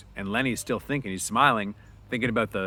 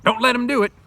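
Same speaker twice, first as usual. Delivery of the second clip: loud, high urgent yell; 14 semitones higher, 12 dB louder than usual. Acted. George urges Lenny to fight back, loud yell. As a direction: yell across the room to rally him.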